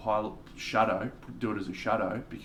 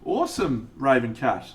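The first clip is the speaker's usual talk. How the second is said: excited praise; 6 dB louder than usual. Real, not acted. Reacting to a viewer's painting.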